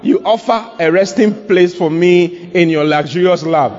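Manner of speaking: personal, slightly lifted prayer; talking to God. Shown as a demonstration. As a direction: address it straight to the Lord. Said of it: "as you are talking like this to the Lord".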